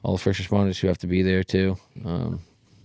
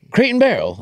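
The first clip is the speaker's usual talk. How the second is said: quoted agent; 13 semitones higher, 3 dB louder than usual. Retold or imitated. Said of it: "he's like".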